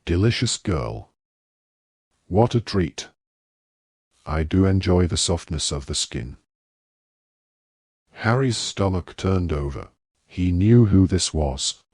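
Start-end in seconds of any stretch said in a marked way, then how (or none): 0.1-6.4 lightly rasped, gloating menace; rasping werewolf. Acted. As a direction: savour each word like a predator. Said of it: "horribly familiar, rasping voice".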